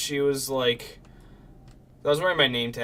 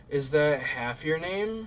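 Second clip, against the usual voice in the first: put-on drunk slurring; 4 semitones higher, 4 dB louder, slower than usual. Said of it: "And she was drunk".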